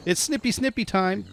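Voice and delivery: high, playful snippy snippy; singsong baby talk. Pretend. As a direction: tease the sheep sweetly. Singsong to the sheep.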